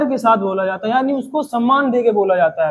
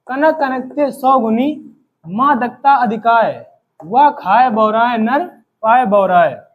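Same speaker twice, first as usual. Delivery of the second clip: slow, measured couplet recital; verse recitation; slower than usual. Acted. Teacher reciting an example couplet to students, slow and deliberate. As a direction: recite the couplet slowly, line by line.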